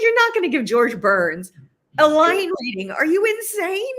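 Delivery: loud, high-pitched mock disbelief; incredulous outrage. Actor retells shock at director coaching a legend, incredulous, high and loud.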